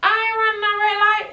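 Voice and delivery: high, loud mock-stubborn granny; a loud, put-on granny voice; imitating granny. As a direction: play the grandma refusing flatly. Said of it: "And she like".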